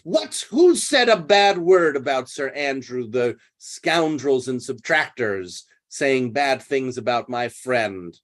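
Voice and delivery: "What?" jumps up, then outraged protest; acting surprised. Toby defending Sir Andrew to Maria, mock surprise. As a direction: fake outrage over his friend. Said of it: "Sir Toby acts, uh, surprised".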